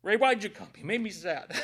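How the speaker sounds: real tearful protest; choked up. Real, not acted. Preacher to Ray who made him sad, choked up. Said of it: "Caleb edited all that crying out of there".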